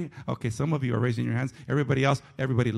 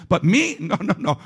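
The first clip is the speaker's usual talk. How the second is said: laughing; 5 semitones higher, 6 dB louder than usual. Real, not acted. Laughing at own confession.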